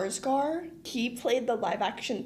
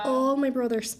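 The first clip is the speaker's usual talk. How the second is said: Irish accent; 2 semitones higher, 3 dB louder than usual. Shown as a demonstration. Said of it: "Your brothers?".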